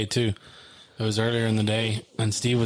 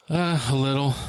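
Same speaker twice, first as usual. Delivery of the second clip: retold weak, hesitant short answer, slightly higher; imitating minimal responses; 4 semitones higher than usual. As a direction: answer as if words are an effort. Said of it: "it was all one worded response".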